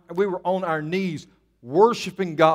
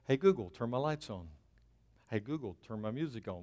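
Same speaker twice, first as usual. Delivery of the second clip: softer, lower, as if addressing a gadget; voice-assistant command; 5 semitones lower, 12 dB quieter than usual. Pretend. Pastor mimics asking Google to turn lights on, soft voice command. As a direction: casually mimic a command to a smart speaker.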